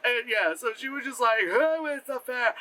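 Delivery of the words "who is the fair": slow, raised, stilted line reading; mock bad acting. Mocking the queen at her mirror, stilted bad acting. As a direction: draw it out like a wooden actress. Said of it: "every time she acted".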